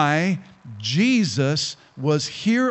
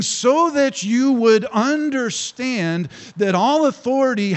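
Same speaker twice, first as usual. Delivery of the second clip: commanding Jesus; 4 semitones higher than usual. Acted. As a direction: boom out rise like a preacher. Preacher voices Jesus commanding.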